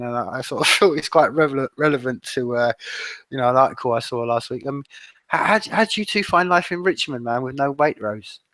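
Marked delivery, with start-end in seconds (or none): 5.3-8.4 mock-serious, higher teasing question. Real, not acted. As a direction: needle them with a cheeky question. Teasing left-field question.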